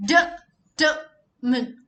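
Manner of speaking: Determine drawn out slowly, no r. Shown as a demonstration. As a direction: stretch Determine syllable by syllable. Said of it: "skip the letter R".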